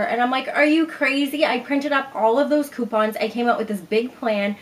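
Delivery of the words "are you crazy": higher, louder disbelief; can't believe her mom; incredulous. Retold or imitated. Pleading with mom who won't go, incredulous.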